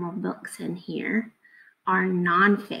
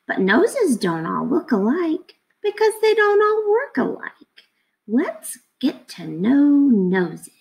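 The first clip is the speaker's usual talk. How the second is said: lively picture book read-aloud; reading to children; 2 semitones higher than usual. Acted. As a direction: read it to the class with energy. Teacher reads picture book aloud.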